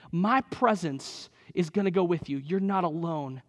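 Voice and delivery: calm Moses gently as God; reassuring God. Retold or imitated. Preacher voicing God reassuring Moses.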